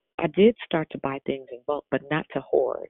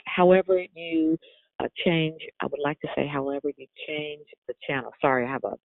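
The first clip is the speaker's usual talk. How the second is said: talking around a mouthguard; wearing a mouthguard. Real, not acted. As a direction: mouthguard in, words a little thick. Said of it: "a mouth guard in my mouth, so I sound a little funny".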